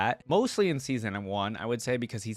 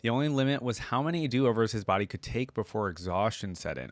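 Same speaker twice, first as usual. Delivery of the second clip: steady, even storytelling read; measured narrator voice reading the tale; story narration. Acted. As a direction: read the lore like an audiobook. Reads lore story aloud.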